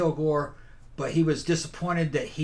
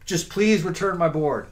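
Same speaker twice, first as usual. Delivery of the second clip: pompous sputtering colonel; 2 semitones higher than usual. Retold or imitated. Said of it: "They say".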